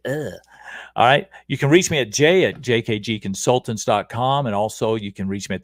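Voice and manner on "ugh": mock groan of distaste; a short grossed-out "ugh"; disgusted ugh. Host mimicking people put off by fried spam, mock disgust. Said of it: "some people say".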